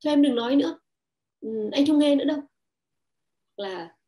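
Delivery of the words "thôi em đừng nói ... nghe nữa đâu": dismissive husband. Retold or imitated. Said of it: "chồng ta nói là".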